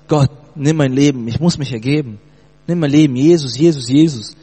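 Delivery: mild retold shout of surrender; crying out to God. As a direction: surrender calling out, a retold yell. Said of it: "fing an zu schreien".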